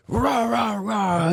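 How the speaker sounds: high mock cheerleading chant; hammed-up rah rah cheer. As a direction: cheer it on sarcastically. Mock cheering, then shouted.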